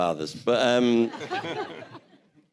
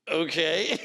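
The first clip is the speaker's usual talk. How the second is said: higher, hesitant rising okay; dubious okay; 8 semitones higher than usual. Retold or imitated. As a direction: play a sceptical, uncertain reaction. Acts out his doubtful reaction.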